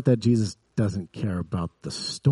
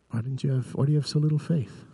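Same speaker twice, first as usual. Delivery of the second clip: gentle questioning; 5 semitones higher than usual. Retold or imitated. Jesus gently questioning disciples.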